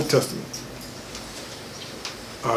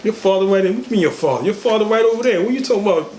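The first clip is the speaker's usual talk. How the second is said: scolding mother; 4 semitones higher, faster than usual. Retold or imitated. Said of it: "Grab him and say".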